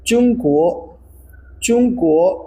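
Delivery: slow clear model of चुंगको for repeating; model pronunciation. Shown as a demonstration. Teacher models चुंगको for students to repeat, slow and clear. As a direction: say चुंगको as two crisp syllables, chung-ko. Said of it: "मेरे साथ बोलिएगा".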